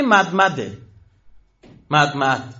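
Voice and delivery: «مدمد» in two even syllables, mad-mad; Hebrew pronunciation. Shown as a demonstration. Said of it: "محمد اونطور تلفظ کردن". («مدمد» با تلفظ عبری، مَدمَد)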